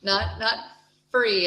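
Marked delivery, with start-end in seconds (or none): 1.1-1.5 free said with a clear f sound; imitating the learner's f; mock wrong f. Shown as a demonstration. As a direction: show the f mistake. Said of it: "It's not an F".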